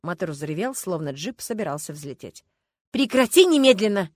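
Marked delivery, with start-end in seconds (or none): 2.9-4.1 louder, higher command to stop; shouting. A narrator's reading. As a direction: yell at her to stop. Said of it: "закричала Люба".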